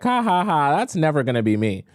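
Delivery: high, put-on ha-ha-ha, then dismissive; mock laugh. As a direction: imitate someone laughing it off. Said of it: "easy to laugh and be like".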